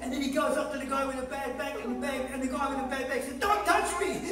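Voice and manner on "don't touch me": higher, sudden panicked refusal, played for laughs; mock alarm. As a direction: fend off the angel in comic alarm. Fisherman refuses healing, comic punchline.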